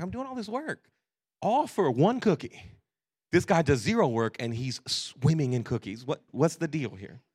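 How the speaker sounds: mock-exasperated daughter; furious daughter. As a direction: imitate an aggrieved kid protesting unfairness. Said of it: "Leah will be so furious".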